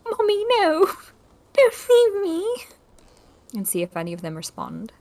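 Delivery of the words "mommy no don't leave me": put-on high, slow, wailing child's plea; childlike cry, pitched up high. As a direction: wail like a lost little kid. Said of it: "a child crying".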